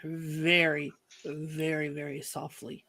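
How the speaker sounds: fading to very soft; creeping up softly behind someone; hushed and careful. Acted. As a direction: trail down into a near hush.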